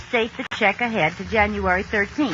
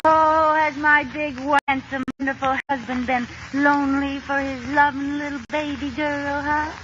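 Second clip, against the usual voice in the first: cooing; 2 semitones higher than usual. Acted. Sweet-talking husband for a loan.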